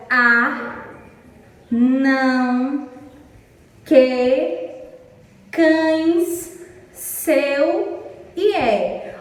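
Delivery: "a, não, que, cães, seu e é" as separate single beats, long pauses between; one-syllable demonstration. Shown as a demonstration. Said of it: "quando pronunciamos essas palavras, abrimos e fechamos apenas uma vez".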